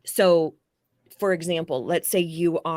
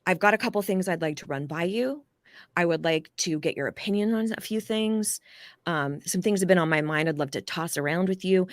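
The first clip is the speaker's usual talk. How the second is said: lighter language. Shown as a demonstration. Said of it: "lighter language".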